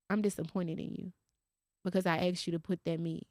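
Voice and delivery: soft, understated disappointment; retold disappointment. Mama quietly disappointed in her child over the meat, retold. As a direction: let the reproach come quietly, without yelling. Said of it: "Disappointment gonna take you way further than yelling".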